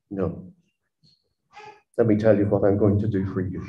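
softly, a quick kind no; gentle refusal. Retold or imitated. The Lord gently turning down David's wish, soft and quick. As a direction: let him down softly, then hurry on kindly. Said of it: "The Lord said gently".

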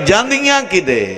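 high, drawn-out grieving cry; anguished lament. Acted. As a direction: cry the question out to the mourners. Climax of lament for imprisoned daughters. (ਉੱਚੀ, ਲੰਮੀ ਦਰਦ ਭਰੀ ਪੁਕਾਰ)

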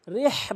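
রিহ with a strong throaty h; heavy pharyngeal h ending রিহ; big ha. Shown as a demonstration. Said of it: "এখানে বড় হা".

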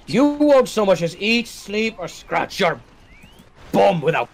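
slow, lightly acted film line; movie quote voice. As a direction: recite it like the character. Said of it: "apparently you quoted Treasure Planet".

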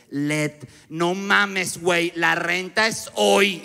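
imitando a una casera tajante, muy lenta; muy seria. Retold or imitated. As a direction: advertencia seria, palabra por palabra. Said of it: "me habla muy serio y me dice". (seriedad amenazante, arrastrando el ritmo)

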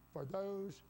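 THOSE drawn out for emphasis; stress on THOSE. Real, not acted. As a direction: lean on the word those. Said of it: "I'm emphasizing that word".

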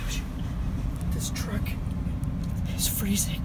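shivering in the cold. Real, not acted. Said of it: "I can't stop shivering".

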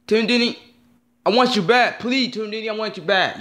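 high, begging cry to the lost channel; pleading. Real, not acted. Fan begging the channel to return, high plea. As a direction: beg for it to come back.

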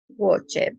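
WATCHED with the written -ED sounded as its own syllable; read as spelled. Shown as a demonstration. Teacher showing students the written past, WATCHED read as spelled. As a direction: say WATCHED letter-for-letter, pronouncing the E before D. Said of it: "leyendo cómo se escribe".

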